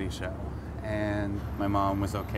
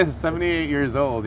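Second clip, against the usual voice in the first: "seventy-eight" pitched higher and louder in disbelief; amazed; 6 semitones higher, 5 dB louder than usual. Real, not acted. Marvels at grandmother's age.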